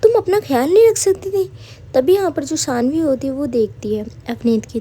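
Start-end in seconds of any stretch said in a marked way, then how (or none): 0.0-1.5 scolding a friend, raised higher and louder; a bit loudly. A narrator's reading. Avneet scolds Sanvi in hospital, a bit loud. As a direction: snap it out a bit loud, half worried. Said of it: "थोड़ा loudly उससे कहती है".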